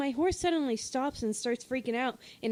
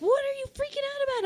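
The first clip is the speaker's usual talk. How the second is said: quoted friend; faster than usual. Retold or imitated. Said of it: "And Hannah's like".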